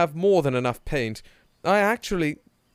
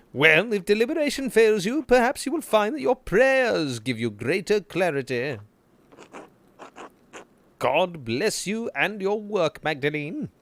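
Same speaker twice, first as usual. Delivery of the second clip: priest voice; 5 semitones higher than usual. Acted. Voicing priest character in game.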